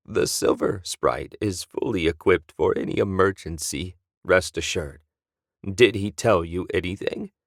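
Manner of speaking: calm, measured counselor reassuring the pilot; lightly voiced Drakor.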